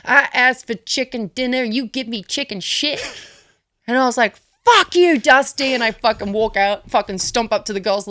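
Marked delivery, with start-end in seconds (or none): 0.1-3.0 a hint of a folksy old coach's voice, slightly higher; imitating Dusty. Coach scolds her shoddy promo in front of everybody, lightly imitated. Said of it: "he was like". 4.6-5.7 loud, high angry shout; angry retort. Retold or imitated. Cranky wrestler snaps back at her coach, retold angry shout. Cranky, storms out after criticism.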